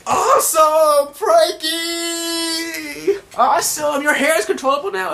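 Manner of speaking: very high, loud drawn-out fanboy shriek; starstruck squealing. Retold or imitated. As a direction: shriek with cartoon awe and delight. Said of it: "Usopp and Chopper are like".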